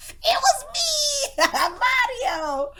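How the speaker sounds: high, drawn-out cry through laughter; laughing confession. Real, not acted. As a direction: burst out laughing as you confess. Confessing the secret while laughing hard.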